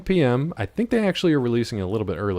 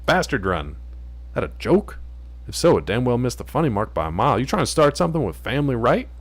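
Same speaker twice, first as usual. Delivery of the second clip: threatening gangster; 2 semitones higher than usual. Acted. Gang member takes offence.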